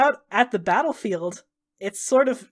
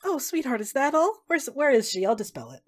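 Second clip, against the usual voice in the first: tender goddess; 3 semitones higher than usual. Acted. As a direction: soothe her gently, no fuss. Goddess comforting grieving Selwyn.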